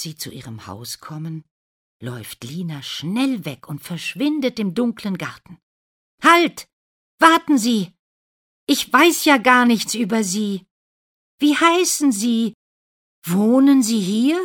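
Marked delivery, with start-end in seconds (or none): 6.2-14.4 much higher and louder shouts after her; calling out. Acted. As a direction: yell into the dark garden to stop her. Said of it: "ruft der Prinz".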